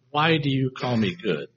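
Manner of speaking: soft, musing question without reproof; thought-provoking question. Shown as a demonstration. Jesus getting the man to think, softly questioning. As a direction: ask it quietly, inviting him to think. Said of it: "It's more of a".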